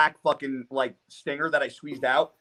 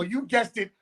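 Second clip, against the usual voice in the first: excited retelling; 4 semitones higher, 4 dB louder than usual. Retold or imitated. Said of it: "I go".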